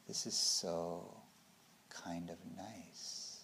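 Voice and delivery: very slow, soft, fading toward a whisper; drowsy dullness. Acted. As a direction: murmur it as if sinking pleasantly into fog. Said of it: "you don't have, which is wakefulness".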